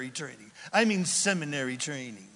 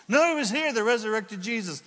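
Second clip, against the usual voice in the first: high, loud insisting; insistent disciples; 5 semitones higher, 3 dB louder, faster than usual. Retold or imitated. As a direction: press the point eagerly.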